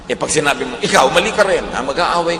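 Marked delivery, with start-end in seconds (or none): 0.8-1.6 louder, higher snap back; a hint of a heated comeback; mock retort. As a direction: throw the blame back at them. You snapping back in anger.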